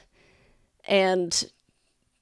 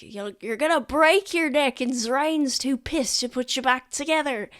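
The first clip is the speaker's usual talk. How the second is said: a higher, lightly voiced soldier warning; teasing warning; 5 semitones higher than usual. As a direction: warn him off, half joking. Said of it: "someone being like".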